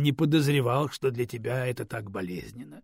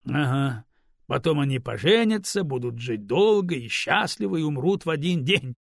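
louder, mocking fairy-tale ending; 5 dB louder than usual. Stone mocks Raven's romantic dream, louder and sneering. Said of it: "насмешливо добавил Камень".

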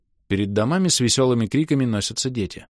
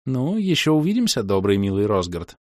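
breathy vintage purr. Acted. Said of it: "промурлыкала девушка".

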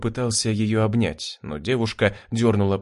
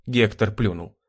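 plain reading voice

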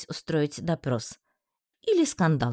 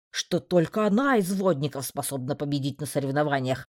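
low, reproachful and deliberate; stern male voice; 5 semitones lower than usual. Acted. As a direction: list his grievances sternly. Magistrate's long reproach.

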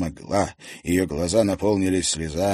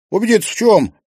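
puzzled question; 9 dB louder, faster than usual. Acted. Marina asks, puzzled.

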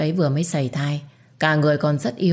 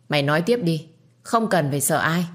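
ordinary delivery, nothing marked

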